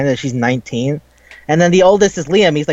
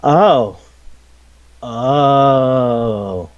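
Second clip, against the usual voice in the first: awkward oh; 3 semitones lower than usual. Retold or imitated. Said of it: "It's like".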